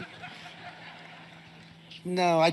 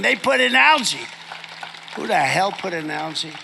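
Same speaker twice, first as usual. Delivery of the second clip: loud outrage; 4 dB louder than usual. Real, not acted. Trump to rally crowd, indignant shout. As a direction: hammer the algae line.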